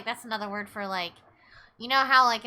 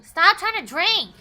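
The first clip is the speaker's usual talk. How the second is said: louder, slow scold at the character; mock scolding; 7 semitones higher, 7 dB louder, slower than usual. Streamer scolding the game character, slow and loud. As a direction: scold her, drawn out.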